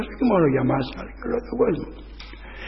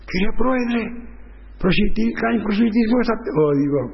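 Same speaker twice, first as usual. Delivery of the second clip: higher, stammering retold lawyer; flustered lawyer; 6 semitones higher than usual. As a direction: mimic a lawyer fumbling his plea. Lawyer voiced in retold trial.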